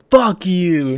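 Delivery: breathy whisper, cut off and bitter; hissed whisper of defeat; whispered curse. Acted. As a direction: spit it out under your breath. Cornered character curses under breath.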